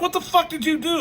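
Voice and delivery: high-pitched mock outraged yell; hammed-up, high indignant outburst; retold yelling. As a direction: imitate angry people yelling at someone. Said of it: "They start yelling at him".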